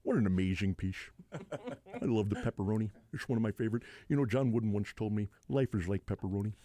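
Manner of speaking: lightly voiced rambling sage; understated marvelling character voice; Bill Walton. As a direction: muse in a mild slurred impression. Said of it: "that's typically like a Wednesday night".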